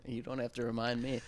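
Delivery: unvoiced whisper, dropped well under her own talk; whispered aside. Real, not acted. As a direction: breathe it like a secret nobody should hear. Aside about Alan handling things.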